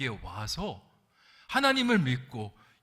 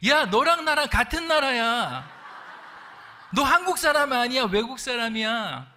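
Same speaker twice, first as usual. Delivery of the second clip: much higher, louder retort; laughing exasperated comeback; exasperated newcomer; 9 semitones higher, 8 dB louder than usual. Retold or imitated. Newcomer reminds senior they're both foreigners, loud and high. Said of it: "신참 노동자가".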